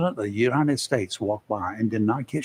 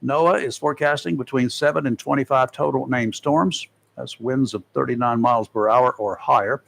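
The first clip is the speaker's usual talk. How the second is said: measured announcer read, key figures leaned on; presenting a forecast to listeners; radio weather report; 3 semitones higher than usual. Acted. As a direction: read it like a radio hurricane bulletin.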